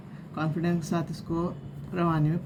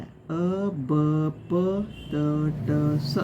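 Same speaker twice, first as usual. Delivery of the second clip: slow half sounds; much slower than usual. Shown as a demonstration. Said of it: "आधा आधा पढ़ा है".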